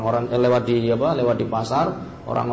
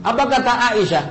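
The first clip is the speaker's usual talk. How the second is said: ordinary delivery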